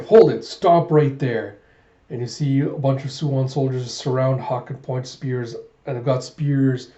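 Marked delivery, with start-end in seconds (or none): 0.0-1.6 loud acted order to halt; commanding call. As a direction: call out a firm, slowing command to stop. Soldiers order Hawk to halt.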